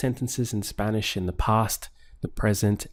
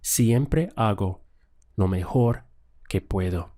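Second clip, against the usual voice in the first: slow model answer. Shown as a demonstration. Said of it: "try to translate this one now".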